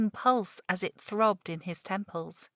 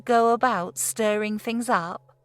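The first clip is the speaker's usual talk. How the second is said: louder, rising, forceful sermon; strident; 6 dB louder than usual. Acted. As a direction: drive the warning home with force. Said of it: "taking on a more strident note".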